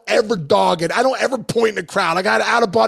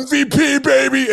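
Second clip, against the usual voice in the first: gloating shout; 5 semitones higher than usual. Retold or imitated. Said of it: "and I'm like".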